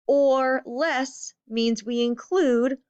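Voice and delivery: slow down and lean on "or". Shown as a demonstration. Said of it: "that becomes really important".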